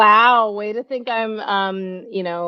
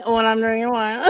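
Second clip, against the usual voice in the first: slurred tipsy speech; words running together, tipsy; slurring; 4 dB quieter than usual. Real, not acted. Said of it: "I'm literally slurring right now".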